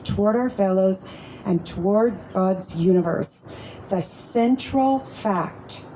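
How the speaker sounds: measured, reverent reading of a passage; a steady, slightly slowed book reading; reading aloud. Acted. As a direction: read it like scripture at a meeting. Reads Big Book passage aloud.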